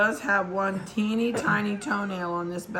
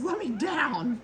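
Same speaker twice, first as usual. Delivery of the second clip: high, squeaky puppy pleading to be put down; 8 semitones higher, slower than usual. Pretend. Breeder voicing the puppy on the scale, high pleading voice. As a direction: voice the pup asking to get down, pitched up. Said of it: "She says".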